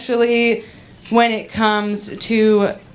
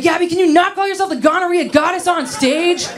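higher-pitched, lightly voiced scolding mother; disapproving mom; 8 semitones higher than usual. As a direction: plead like an embarrassed mother, lightly imitated. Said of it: "my mom hates that joke".

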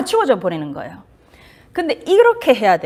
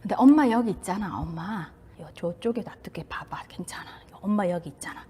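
softer, partly whispered comfort; reassuring mother; 4 semitones lower, 9 dB quieter than usual. Retold or imitated. Mother soothing her frightened child, soft and reassuring. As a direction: hush the child gently, mother is right here. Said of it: "이렇게 하는 거예요".

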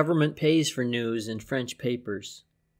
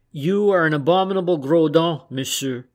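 sudden loud, higher insult that drops back at monsieur; outraged retort; 3 semitones higher, 6 dB louder than usual. A narrator's reading. Poincaré, jumping up, hurls an insult at Berton: loud outraged retort. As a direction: fling the insult across the chamber. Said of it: "Poincaré jumped up and said".

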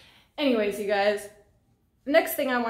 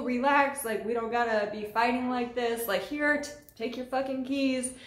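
retold backing down; 2 semitones higher than usual. Dealer backs down at knife.

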